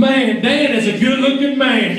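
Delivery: lightly voiced wife, admiring. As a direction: play her dreamy, approving. Voicing wife admiring him.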